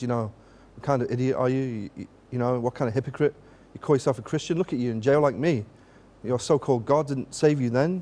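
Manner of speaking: normal talking voice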